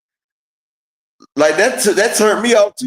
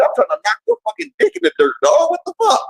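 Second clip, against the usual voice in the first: hyped fighter rant; 9 semitones higher than usual. Retold or imitated. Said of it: "Nah, nigga".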